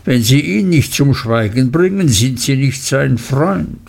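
slippery voice backing down; placating Uriah. Acted. Uriah threatening.

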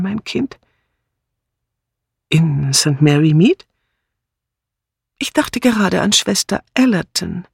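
a hint of an old lady telling a sad case; Miss Marple, nachdenklich erzählend. Miss Marple erzählt ihrer Nichte. (leicht angedeutete alte Tante, nachdenklich erzählend)

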